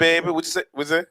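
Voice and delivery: playing up the New Orleans talk; New Orleans accent. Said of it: "I could put the New Orleans on".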